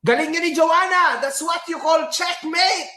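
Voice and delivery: lightly voiced proud friend, high; a hint of a gloating fan; quoting a friend. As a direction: read it out like a boast. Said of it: "Sabi ni Marden".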